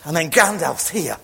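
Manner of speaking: loud, high, triumphant storytelling; rousing excitement. Acted. Preacher announcing Gandalf's arrival to the congregation, rousing shout. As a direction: build to a big shouted climax.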